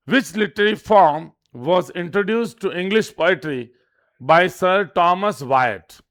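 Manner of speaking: very slow, deliberate quiz reading; slow question read-out. Shown as a demonstration. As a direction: read each word out slowly for students to note.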